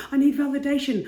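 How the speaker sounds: a desperate, tearful plea for approval; needy cry. Retold or imitated. Her old self craving likes, tearfully crying out. Reenacting craving validation online.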